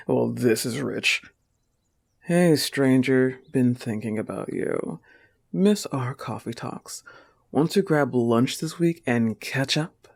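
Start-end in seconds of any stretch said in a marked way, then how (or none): 2.2-5.0 reading the rival's text in a light mock-sweet voice; a hint of sugary imitation; lightly hammed-up flirty text. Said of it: "Read it to me". 5.5-7.0 reading the text with a slight mock sweetness; lightly imitating the sender; a touch of mock flirtation. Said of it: "Read it to me". 7.5-10.1 reading the rival's text in a light mock-sweet voice; a hint of sugary imitation; lightly hammed-up flirty text. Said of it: "Read it to me".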